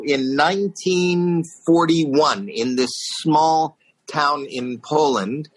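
slow, drawn-out solemn rabbi address; measured memorial-speech delivery, slowly. Retold or imitated. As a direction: lightly voice a rabbi recalling tragedy. Rabbi's solemn Holocaust remembrance speech.

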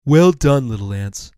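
lightly voiced turtle giving praise; kindly turtle, approving. Turtle praises the little ants, approving.

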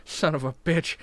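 wasted, words slipping. Real, not acted. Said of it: "I'm so drunk".

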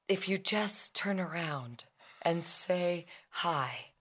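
soft unvoiced whisper. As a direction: breathe it out as a hush. Mother's advice retold to child.

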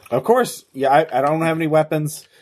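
a jittery runaway insisting on innocence; anxious fugitive voice. Acted. GM voices Dash reassuring the crew.

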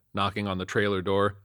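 usual speaking voice

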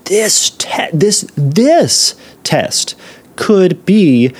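hushed dramatic whisper; whispered mock dread. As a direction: whisper it like a dire secret. Dramatic hushed mocking of the test.

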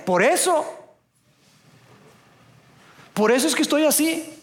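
put-on sassy teenager answering back; sarcastic teen. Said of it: "los chavos dirán".

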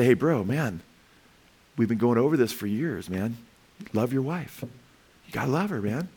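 soft, brotherly plea; gentle admonishing. Acted. Pastor counseling a brother to love his wife, gentle admonishing. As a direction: ease off and counsel him like a friend. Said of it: "I don't desire to talk like that".

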